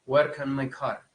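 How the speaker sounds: slow, rolled Belfast R on "car"; Belfast accent. Shown as a demonstration. Teacher demoing a Belfast accent, slow rolled R. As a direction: drag out the rhotic R like Belfast. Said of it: "en Belfast, pues, un poco esta R rótica".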